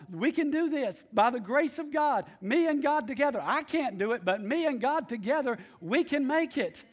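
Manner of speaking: preacher voicing a bold faith declaration. Shown as a demonstration. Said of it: "declare to yourself".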